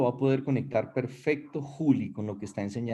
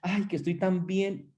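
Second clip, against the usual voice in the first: voz aguda de halago fingido; halagado y coqueto; 4 semitones higher than usual. Retold or imitated. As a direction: suspirar encantado por los cumplidos. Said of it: "usted decía". (responde feliz a los halagos, tono agudo y coqueto)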